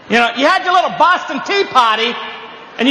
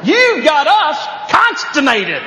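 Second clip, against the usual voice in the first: slow, higher Southern drawl; 4 semitones higher, slower than usual. Retold or imitated. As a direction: stretch the words the Southern way. Mocking Southern speech.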